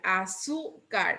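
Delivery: azúcar slowly, low, with a held ZÚ; azúcar in slow careful syllables, middle emphasized; stress on azúcar's middle syllable. Shown as a demonstration. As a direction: stretch the ZÚ in azúcar. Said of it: "Esa sí es grave".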